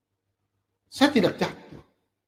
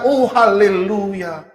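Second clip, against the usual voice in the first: gentle hallelujah; much slower than usual. Shown as a demonstration. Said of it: "berbicara dengan hati yang lembut".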